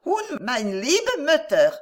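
put-on child speaking German. A narrator's reading. Son adding a German blessing for his mother, slow and sweet. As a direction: lean back and add it sweetly, slowly.

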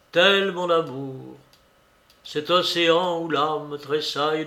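measured, even recitation of romantic verse; poem recitation. A narrator's reading. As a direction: recite the romance line by line, with pauses.

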